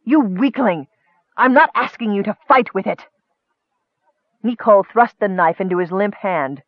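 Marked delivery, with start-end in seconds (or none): 0.1-3.1 exasperated, raised-pitch insult; heated, impatient scorn; scornful rebuke. Acted. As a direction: scold him with contempt.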